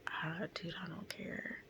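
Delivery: very soft, worn-out murmur; retold weary resignation. Tired woman declining the bystander's help, retold soft resignation. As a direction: give up quietly, barely any voice. Retells own worn-out reply.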